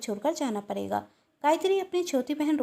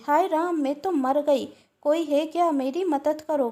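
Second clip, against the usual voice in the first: fake cry for help. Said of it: "और जोर से चिल्लाती".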